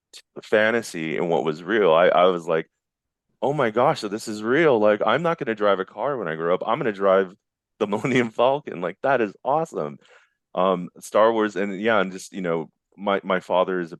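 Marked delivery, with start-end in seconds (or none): 3.4-10.0 a touch of wide-eyed awe; retold childlike excitement. Awed kid plans to fly the Millennium Falcon, mildly excited. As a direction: lightly act out an amazed kid's thoughts.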